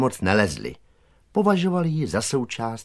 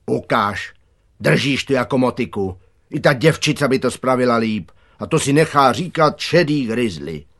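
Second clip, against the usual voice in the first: mildly worked-up scolding, a bit louder; exasperated gardener; 3 semitones higher, 6 dB louder than usual. A narrator's reading. Gardener takes the spade from a lazy boy, exasperated. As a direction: scold a clumsy helper with some impatience. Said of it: "Zahradník se neudržel".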